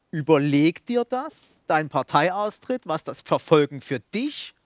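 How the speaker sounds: langsam und eindringlich zitierte Warnung; hintergründige Drohung. Retold or imitated. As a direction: zitiere es gedehnt, Wort für Wort, als versteckte Drohung. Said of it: "als zumindest hintergründige Drohung". (unterschwellig drohend, bedächtig nachgesprochen)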